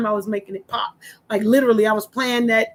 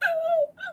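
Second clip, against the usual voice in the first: imitated crying gasp; 7 dB quieter than usual. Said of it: "so I'm gonna act her out".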